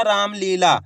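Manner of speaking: रामलीला with its long vowels held; drawn-out pronunciation. Shown as a demonstration. Teacher asking learners to listen well, रामलीला drawn out. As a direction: pull out the long sounds of रामलीला. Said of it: "खींच के उच्चारण हो रहा".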